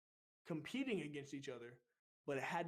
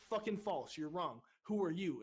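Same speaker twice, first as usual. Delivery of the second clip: retold angry challenge; 2 semitones higher, 4 dB louder than usual. Recruit leader correcting a stammering recruit, angry challenge. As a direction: re-enact rejecting a recruit's answer sharply.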